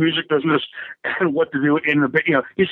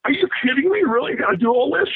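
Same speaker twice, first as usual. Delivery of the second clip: higher-pitched retold disbelief; mock-exasperated, high-pitched questioning; freaking out; 6 semitones higher than usual. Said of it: "I was freaking out".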